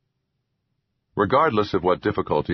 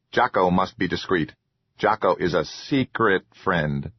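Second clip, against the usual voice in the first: hushed, secretive troll voice. Acted. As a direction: confide like a timid troll. Troll Jocko speaks.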